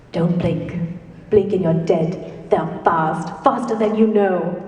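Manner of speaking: measured, attempted English accent; attempted Doctor accent. Panelist attempting a favorite quote in accent, measured warning. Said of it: "I will attempt for you".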